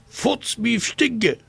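hoch und freudig; freudig gerufen. Acted. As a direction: jubelnd ausrufen. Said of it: "riefen sie freudig". (hoher, freudiger Jubelruf)

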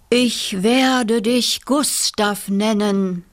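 slow, proud father ghost naming his son; proud papa. Acted. Papa ghost names his newborn son, slow and proud. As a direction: say it slowly, swelling with pride. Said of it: "sagte sein Papa stolz".

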